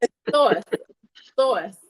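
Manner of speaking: "sauce" insisted on as SAWSS; amused correction, "sauce" with a rounded AW; "sauce" close to "source"; Northern sauce. Shown as a demonstration. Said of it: "I still say sauce".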